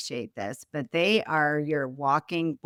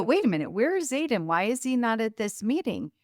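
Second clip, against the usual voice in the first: higher, fast, startled questions; suddenly realising he's missing; alarmed surprise; 5 semitones higher than usual. Retold or imitated. Boss asking the team where her son is, in higher, fast surprise.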